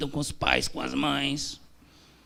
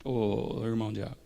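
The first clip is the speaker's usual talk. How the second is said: hushed reply; 6 dB quieter than usual. Retold or imitated. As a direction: drop the voice to confess.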